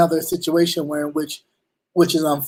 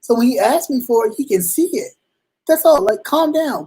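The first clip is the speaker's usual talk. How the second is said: defensive explaining; 5 semitones higher than usual. Retold or imitated. Driver pulled over explains himself to the officer, higher and urgent. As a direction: justify yourself to a tense cop. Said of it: "And I'm just like".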